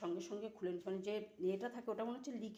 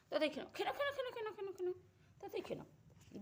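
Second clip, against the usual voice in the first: sing-song coaxing; 11 semitones higher, much faster than usual. Real, not acted. Coaxing Kutus to eat quickly.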